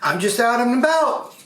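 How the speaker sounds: a hint of high cartoon-animal voice; storybook animal. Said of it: "He says".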